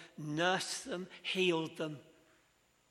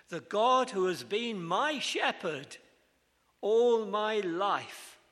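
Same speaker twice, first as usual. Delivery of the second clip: swelling fervent blessing; 5 semitones higher, 7 dB louder, slower than usual. Retold or imitated. Jacob's blessing, rising with feeling.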